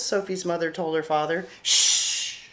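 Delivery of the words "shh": shush. Acted. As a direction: hush so the baby sleeps. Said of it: "Sophie said".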